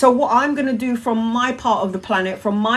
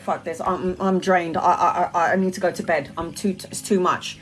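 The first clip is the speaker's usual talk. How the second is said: much softer, lower, worn-out voice; drained and exhausted; 4 semitones lower, 5 dB quieter than usual. Retold or imitated. Recalling how she felt after an angry outburst, drained and quiet. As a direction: let the energy drain out of it. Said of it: "I was just like".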